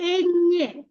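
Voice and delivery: "এñe" stretched as en-nye, sounded through the nose; nasal Ñ. Shown as a demonstration. Teacher tells learners to use the nose in Spanish, nasal Ñ. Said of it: "নাকটা মাতাবে".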